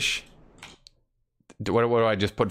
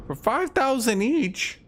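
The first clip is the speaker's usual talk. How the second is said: incredulous; 12 semitones higher than usual. Real, not acted. Shocked at shop price.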